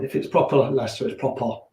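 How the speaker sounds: demonstrating a Leicester accent. Shown as a demonstration. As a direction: show off "proper" the Leicester way. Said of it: "That's the Leicester accent".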